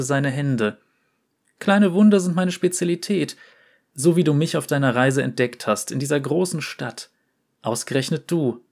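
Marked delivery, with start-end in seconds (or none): 1.6-8.6 ein Hauch höhere, scheue Jungenstimme; leicht gespielter Porzellanjunge. Acted. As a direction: zaghaft ein Geheimnis gestehen. Fiaram spricht über Wunder. (Fiaram gesteht Oriana seine Angst vor der Welt, leicht höher und scheu)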